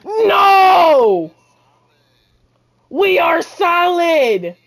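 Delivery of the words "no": loud sharp no; excited shout. Real, not acted. Gamer yelling at a play, loud no. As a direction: bark it at the screen.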